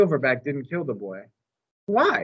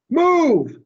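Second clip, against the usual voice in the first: much higher, loud angry bark; louder command; 14 semitones higher, 7 dB louder than usual. Acted. Mac orders the elephant out again, angrier bark. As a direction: lose patience and bark it. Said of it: "he says again".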